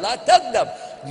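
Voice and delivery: "la taghdab" drawn out slowly, every syllable weighed; slow emphatic advice. Shown as a demonstration. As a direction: stretch out "la taghdab" slowly to drive it home.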